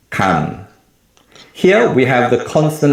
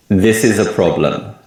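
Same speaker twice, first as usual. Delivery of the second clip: "This" and PROB- of "problem" strong, "is a" weak; English sentence stress. Shown as a demonstration. Teacher showing learners English stress timing, stressing "This" and PROB- in "problem". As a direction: stress on "This" and the first syllable of "problem". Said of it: "more emphasis on the word this".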